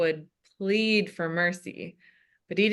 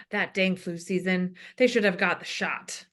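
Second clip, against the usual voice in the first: put-on older heavy-breathing man. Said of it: "The voice of an older, heavy-breathing man".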